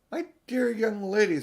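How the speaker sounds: a hint of a stern professor; lightly voiced old scholar addressing a girl; professor's voice. Professor addresses Susan sharply.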